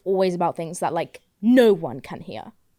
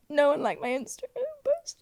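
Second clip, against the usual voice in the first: small, higher put-on pouty voice; mock whining; 5 semitones higher, 4 dB quieter than usual. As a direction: play up the sulk over being ignored. Mocking own complaint about post.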